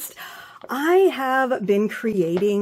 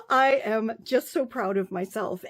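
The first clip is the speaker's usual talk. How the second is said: softer, half laughing, half crying; real pride choking the words; laughing through tears; 5 dB quieter than usual. Real, not acted. Author telling viewers she's proud, laughing through tears. Overwhelmed pride over finished book.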